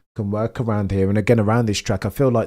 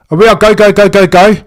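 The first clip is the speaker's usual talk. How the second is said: much higher, all-out shouts of "go"; screaming go; 9 semitones higher, 11 dB louder than usual. Real, not acted. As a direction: yell the race start at the top of your lungs. Race start, lights out.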